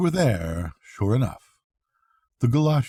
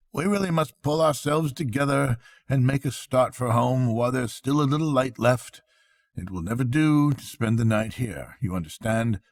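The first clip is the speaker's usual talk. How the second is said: lightly voiced, rallying; brisk Rat; 3 semitones higher than usual. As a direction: get them moving. Rat urges leaving.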